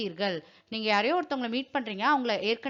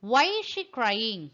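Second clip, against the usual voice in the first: slow model question; much slower than usual. Shown as a demonstration. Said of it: "why-னா ஏன்".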